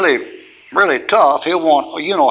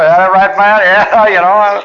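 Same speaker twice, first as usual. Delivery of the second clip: mock tough guy; 6 semitones higher, 6 dB louder, slower than usual. Acting a mocking exchange.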